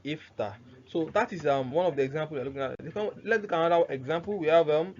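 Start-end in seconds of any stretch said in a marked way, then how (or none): 0.1-0.5 "Iftah" closed on a vowelless h, lower and softer; ordinary sukun ending. Shown as a demonstration. Teacher repeats it with sukun, "Iftah" ending on a bare h. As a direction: stop "Iftah" on the h with no added vowel. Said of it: "With sukun".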